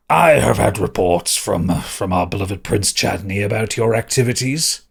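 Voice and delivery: lightly voiced self-important official, slow and deliberate; a hint of drill sergeant reading out charges slowly; drill-sergeant magistrate. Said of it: "as if he was some kind of drill sergeant".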